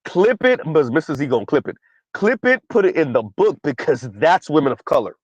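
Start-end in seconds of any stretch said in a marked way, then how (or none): 0.1-0.6 high-pitched, eager command; urgent call-out. Retold or imitated. Reacting to what she said, urgent high-pitched order. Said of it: "I was like". 2.1-3.6 high, insistent command; urgent call-out. Retold or imitated. Telling them to save the clip, urgent high-pitched order. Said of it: "I was like".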